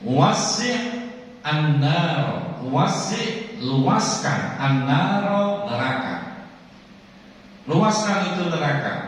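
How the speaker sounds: high commanding chant; commanding divine voice. Acted. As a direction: order the fire widened. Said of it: "kata Allah nih". (perintah yang menggelegar)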